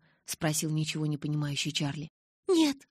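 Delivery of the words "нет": much higher, loud shout. A narrator's reading. Bella shouts at Charlie, much higher and loud. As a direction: fling it back at him. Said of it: "закричала я".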